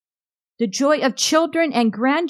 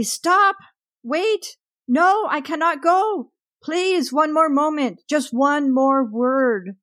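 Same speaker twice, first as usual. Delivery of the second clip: desperate high-pitched pleading yell, not much louder; 4 semitones higher than usual. Acted. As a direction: cry out high, begging to stay, easing at the end. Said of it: "I yelled loudly".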